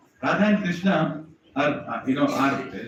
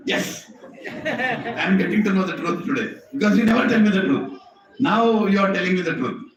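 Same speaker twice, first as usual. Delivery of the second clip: laughing Krishna; 3 semitones higher than usual. Acted. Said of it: "And Krishna is like".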